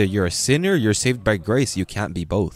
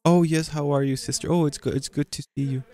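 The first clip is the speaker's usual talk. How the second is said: chatty greeting; 5 semitones higher than usual. Retold or imitated. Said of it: "the sister was greeting someone".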